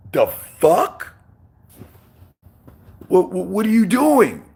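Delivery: bewildered man, high swooping baffled outburst. Retelling a video clip, imitating a baffled man in bed. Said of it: "the guy in the bed is looking at her like".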